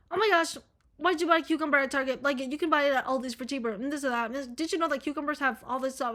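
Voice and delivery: lightly voiced fretting mom; overreacting mom. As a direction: imitate a mother making a fuss over nothing. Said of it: "overreacts to a lot of things".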